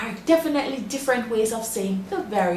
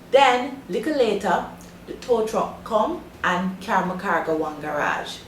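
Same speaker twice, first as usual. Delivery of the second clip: Jamaican English mixed with patois. Shown as a demonstration. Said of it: "three of the possible ways a Jamaican would say it".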